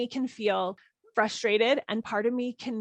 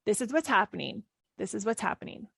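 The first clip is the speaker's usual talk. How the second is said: calm mantra. Shown as a demonstration. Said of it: "I sometimes just say that over and over again".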